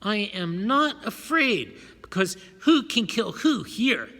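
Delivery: a frightened man's whimper. A narrator's reading. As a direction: whimper it, barely holding together.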